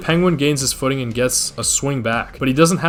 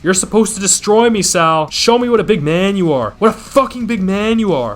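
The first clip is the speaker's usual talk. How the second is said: mild mock rage; 4 semitones higher than usual. Penguin gloating over Sal's body, mildly angry. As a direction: spit the insults down at him, half-acted. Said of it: "looks at Sal's lifeless body and says".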